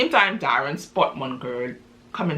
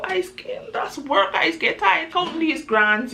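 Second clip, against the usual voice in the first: high, slow, chuckling brag; 12 semitones higher, slower than usual. Retold or imitated. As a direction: laugh the words out while bragging. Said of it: "So he do a little chuckle".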